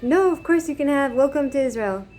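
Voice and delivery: lightly acted hearty welcome; imitated welcoming reassurance. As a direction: imitate a shopkeeper insisting it's fine. Retells shopkeeper's welcoming reassurance.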